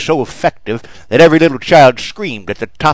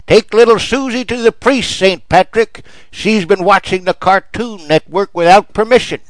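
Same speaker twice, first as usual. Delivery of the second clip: much higher, loud shrill church-lady shout; a zealous mother yelling up from the pew; 9 semitones higher, 5 dB louder than usual. Retold or imitated. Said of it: "stood up and shouted".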